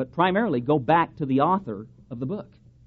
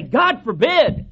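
drawn-out, louder and higher cry of God forbid; emphatic exclamation; 10 semitones higher, 10 dB louder, much slower than usual. Retold or imitated. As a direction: proclaim it slowly like Paul rebuking the idea. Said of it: "Or as the Apostle Paul, I think, would say".

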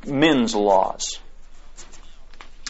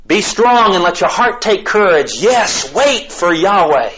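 raised, higher preaching voice; impassioned exhortation; 7 semitones higher, slower than usual. Real, not acted. Preacher urging the congregation to wait for Yahweh, fervent exhortation. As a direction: urge them on fervently from scripture.

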